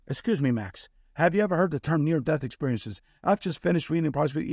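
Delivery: flat mechanical robotic voice; robot voice, rushed in the middle. Retold or imitated. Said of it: "the same verbatim came out".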